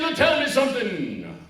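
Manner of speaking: high, booming, chanting preacher; hammed-up pulpit wail, loud and drawn out; Reverend Tucker. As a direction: stretch the vowels into a sung sermon. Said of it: "That's the way he thought".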